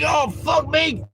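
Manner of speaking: high, disgusted outburst, half-shouted. Acted. Barman disgusted by taste.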